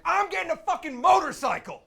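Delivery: high, loud outburst; deciding on a whim to buy a bike; impulsive shout. Retold or imitated. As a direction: blurt it with sudden resolve. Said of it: "I was like".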